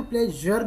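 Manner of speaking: "प्लेजर" said as play-zher; correct pleasure pronunciation. Shown as a demonstration. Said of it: "जा के नीचे dot लगाएंगे तो प्लेजर बनता".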